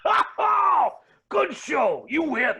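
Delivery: hammed-up jolly defeat; hearty shout. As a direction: concede with theatrical glee. Villain conceding with shout.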